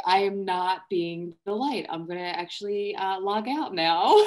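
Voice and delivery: amused confession, loud and laughing; half-laughing self-talk. Retold or imitated. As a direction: laugh at yourself as you decide to quit. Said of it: "And I'm like".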